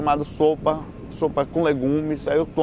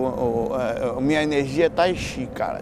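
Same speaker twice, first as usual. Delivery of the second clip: ordinary delivery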